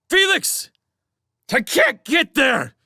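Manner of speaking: shrill high shout; screech. A narrator's reading. Trapped man screeching across the cavern. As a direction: screech it in panic. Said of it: "he heard himself screech".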